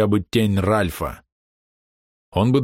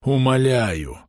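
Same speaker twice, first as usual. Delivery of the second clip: insistent pleading; slower than usual. A narrator's reading. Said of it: "с нажимом повторил мужчина".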